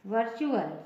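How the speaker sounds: वर्चुअल repeated as "var-chu-al"; T read as CH. Shown as a demonstration. Teacher repeating the example for learners, वर्चुअल with "ch". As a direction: say वर्चुअल with a "ch" in the middle. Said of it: "च हो जाएगा".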